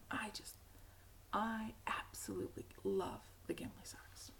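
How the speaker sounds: hushed whisper of delight; soft adoring whisper over the socks. Real, not acted. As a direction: whisper it like a confession of love. Gushing over her knitting.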